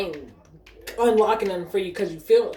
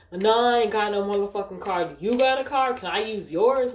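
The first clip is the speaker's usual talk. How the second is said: higher, loud retold customer protest; imitating pushy customer; 4 semitones higher, 4 dB louder than usual. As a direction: mimic a customer pushing for a favor. Retold pushy customer demanding a card.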